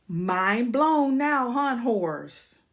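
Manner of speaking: slow, loud taunt. Real, not acted. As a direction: drag it out to rub it in. Taunting new viewers.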